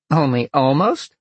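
high, loud amused vixen. A narrator's reading. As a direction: ask it teasingly, high and loud. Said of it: "the vixen laughed".

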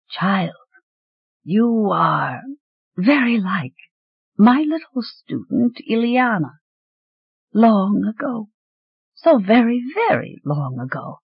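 put-on slow, dusty old voice; sleepy ancient voice. A narrator's reading. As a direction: wake slowly from a long sleep. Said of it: "gravelly and dusty with disuse".

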